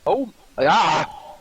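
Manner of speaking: echoing mic with reverb. Real, not acted. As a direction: voice echoing as in a hall. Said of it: "now it's got reverb".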